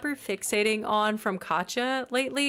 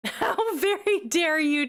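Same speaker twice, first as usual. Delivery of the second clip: high, laughing mock indignation; laughing mock outrage; 7 semitones higher than usual. Teasing Chip for the comment, laughing mock outrage. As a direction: act affronted while cracking up.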